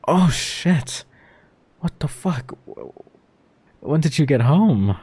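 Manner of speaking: loud, high shocked outburst; startled shout. Real, not acted. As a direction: jump out of your skin, shout. Caught by partner arriving home.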